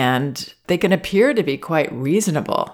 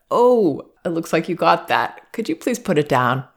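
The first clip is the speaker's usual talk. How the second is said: very calm and safe; 3 semitones higher than usual. Shown as a demonstration. Parent calmly asking a toddler to put it down, gentle and safe. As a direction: say it calmly so the child feels safe. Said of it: "They might if I say it very calmly".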